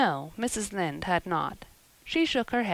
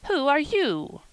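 louder, higher sharp question; curt demand; 8 semitones higher, 5 dB louder than usual. Acted. Old aunt demanding who the stranger is, louder and sharper. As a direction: snap at the intruder. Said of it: "demanded Miss Josephine Barry without ceremony".

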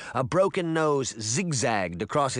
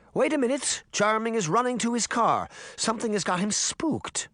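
startled remark; 9 semitones higher than usual. A narrator's reading. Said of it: "Missus Grimm remarked".

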